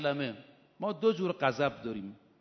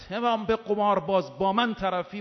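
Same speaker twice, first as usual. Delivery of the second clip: raised, louder voice in retold anger; angry retort; 4 semitones higher, 5 dB louder than usual. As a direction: throw down an angry challenge. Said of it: "با خشم این جمله رو گفت". (با خشم و صدای بلند)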